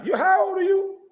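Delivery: high, loud incredulous shout; mocking shout. Mocking a grown analyst, shouting how old he is. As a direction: yell it up high at him, incredulous.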